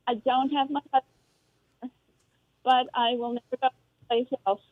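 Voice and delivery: phone line cutting in and out; breaking up on a bad bluetooth call; bluetooth headset mic. Real, not acted. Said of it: "is dropping in and out".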